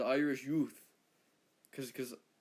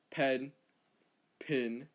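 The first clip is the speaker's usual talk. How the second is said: "pen, pin" in an American accent, separated; American pronunciation. Shown as a demonstration. Australian imitating an American, "pen, pin" in American accent. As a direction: say "pen" then "pin" distinctly, American style. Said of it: "an American would say".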